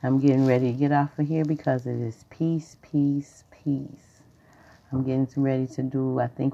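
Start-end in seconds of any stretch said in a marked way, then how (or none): 2.3-3.4 breathy whispered peace, no voice; a soft mantra whisper. Acted. Repeating peace as a calm mantra. 3.5-4.2 peace, let it fall away very softly; soft fading peace. Acted. Repeating peace as a calm mantra.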